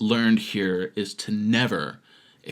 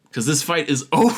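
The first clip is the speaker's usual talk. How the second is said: laughing; 3 semitones higher, faster than usual. Real, not acted. Laughing at own joke.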